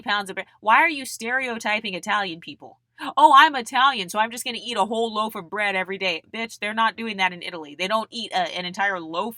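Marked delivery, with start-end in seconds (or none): 3.2-6.2 loud mock excuse, rushing at the end; mocking imitation. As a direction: mimic a silly excuse, starting loud. Mocking an excuse she rejects.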